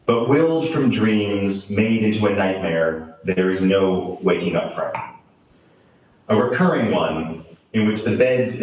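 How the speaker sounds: measured poetry reading with deliberate pauses; poem reading. Acted. Poet reads grim lines about monsters and children to an audience, solemn poem reading. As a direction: let each phrase stand between pauses.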